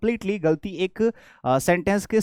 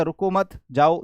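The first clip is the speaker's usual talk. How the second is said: रुको मत as one group, then जाओ; slow down and break between मत and जाओ; pause after मत; 2 semitones lower, slower than usual. Shown as a demonstration. Teacher showing another reading, pause before जाओ. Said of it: "या फिर आपने ऐसे बोल दिया".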